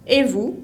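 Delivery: "Et vous?" climbing sharply on "vous"; rising intonation. Shown as a demonstration. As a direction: ask "Et vous?" as a question, pitch rising. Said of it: "Uso una entonación ascendente".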